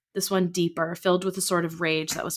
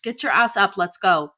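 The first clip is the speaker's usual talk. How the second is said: sharp order; 6 dB louder than usual. Acted. Mother ordering child.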